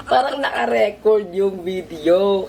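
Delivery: giggly; high squealing laugh. Real, not acted. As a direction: break into giggles over it. Laughing at the fake video.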